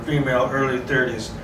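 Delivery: ordinary delivery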